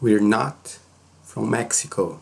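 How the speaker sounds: "We're" reduced to one syllable "weer"; contracted "We're" in "We're not from Mexico"; quick contracted form. Shown as a demonstration. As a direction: say "We're not" joined, as in spoken English. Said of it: "falando rapidinho".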